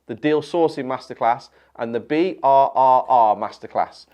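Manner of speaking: ad read. Acted. Ad read for his masterclasses.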